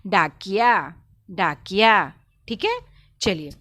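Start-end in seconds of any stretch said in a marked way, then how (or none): 0.1-2.1 डाकिया loud, long डा, quick jerk on कि; jerked short i. Shown as a demonstration. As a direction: punch out डाकिया for pupils with a brief कि. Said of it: "क वर्ण को झटके के साथ बोलेंगे".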